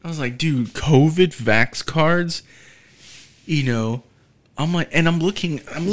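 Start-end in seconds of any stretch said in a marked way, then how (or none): 0.4-2.4 drawn-out, slow incredulous question; slow disbelief. Retold or imitated. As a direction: stretch each word in disbelief. Disbelief at finding cards.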